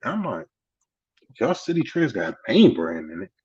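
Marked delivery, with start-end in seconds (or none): 1.4-3.3 retold double-check at near-usual pitch; mildly surprised question. Newcomer checks the store really has brands, mildly surprised question. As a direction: echo the claim back as a question.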